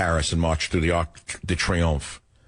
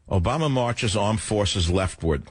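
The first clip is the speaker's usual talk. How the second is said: headline read; slower than usual. Shown as a demonstration. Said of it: "there's an article from Washington Times".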